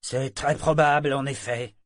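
dry, biting agreement; caustic. Acted. Mate answering the captain's excuse, caustic. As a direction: agree with a sting underneath. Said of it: "d'un ton caustique".

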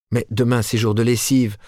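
wife protesting weakly to husband, feeble. A narrator's reading. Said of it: "protesta-t-elle faiblement".

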